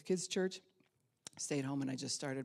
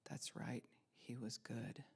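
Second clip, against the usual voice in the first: whispered under the breath, voice dropped right out; a sudden whisper after the story; hushed whisper; 4 semitones lower, 12 dB quieter, slower than usual. Real, not acted. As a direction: let it fall to a whisper. Grief-struck aside about the tutor.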